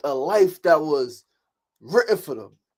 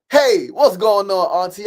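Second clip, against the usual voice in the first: louder, slow, drawn-out hello to a beloved aunt; cheerful phone greeting; 7 dB louder, slower than usual. Retold or imitated. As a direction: greet your aunt on the phone, big and happy. Calling up your favorite person.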